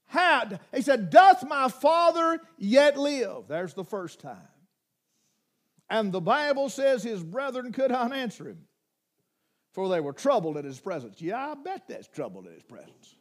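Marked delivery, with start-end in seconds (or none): 1.1-3.5 slow, raised pitch, weighty; slow earnest question. Acted. Preacher reading Joseph asking his brothers, slow and earnest. Joseph asks about father. 11.2-13.1 much softer, lower, knowing; wry low aside. Real, not acted. Preacher commenting on the brothers' fear, dry and soft.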